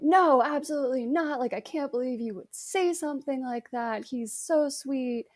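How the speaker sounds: replaying a defensive outburst at mom; retold blow-up. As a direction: snap back in mock denial. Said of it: "blew up at her and was like".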